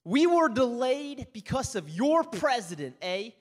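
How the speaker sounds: slow, pointed Canadian snark; mock-snarky complaint. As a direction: imitate a snide remark, drawn out slowly. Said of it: "real snarky comment".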